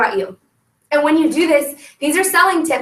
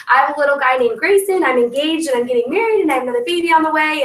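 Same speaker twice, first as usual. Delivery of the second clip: bright cheery party intro; upbeat sales pitch. Shown as a demonstration. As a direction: greet the guests like a hostess. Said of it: "the I story sounds like this".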